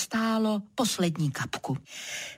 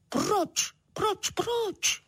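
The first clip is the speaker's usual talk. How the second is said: each why climbing higher; rising why; 14 semitones higher, much slower than usual. Acted. Little cloud pleading with the animals, climbing higher.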